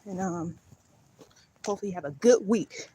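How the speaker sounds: out of breath from walking. Real, not acted. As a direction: speak while winded. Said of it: "Girl, out of breath".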